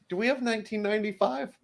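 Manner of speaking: put-on 1 kid asking mom. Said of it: "you're like".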